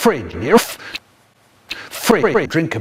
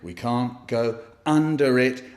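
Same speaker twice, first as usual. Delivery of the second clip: ordinary talk, nothing marked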